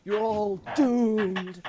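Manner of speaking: slow, high, loud doom prophecy; slow ominous raspy drawl. Acted. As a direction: drag out the doom like a seer.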